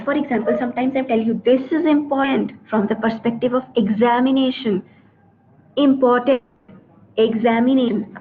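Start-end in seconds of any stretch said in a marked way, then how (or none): 1.4-4.8 emphasis on "important" and "examination"; stress on important, examination. Shown as a demonstration. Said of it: "when I emphasize". 5.8-8.2 Important and examination each set apart with weight; stressed key words. Shown as a demonstration. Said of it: "I stressed on two words".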